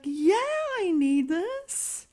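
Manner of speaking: put-on high, slow, insistent old woman; stubborn old lady. Old hoarder insisting to grandson, high and slow. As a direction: drag it out, clinging.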